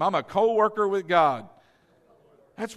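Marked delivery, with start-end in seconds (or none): 0.0-1.5 louder, with full conviction; like you mean it. Shown as a demonstration. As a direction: declare it like you truly mean it. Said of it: "say it like you mean it this time".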